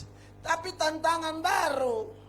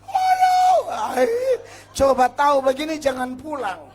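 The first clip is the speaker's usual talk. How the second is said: crying wife; 2 semitones higher, 12 dB louder than usual. Retold or imitated. Wife wailing at her husband coming home, mock crying. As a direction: imitate a wife wailing through tears. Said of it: "dia menangis lagi".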